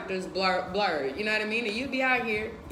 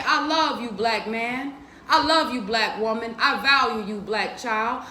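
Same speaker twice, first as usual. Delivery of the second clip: loving affirmation. Retold or imitated. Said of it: "When I say".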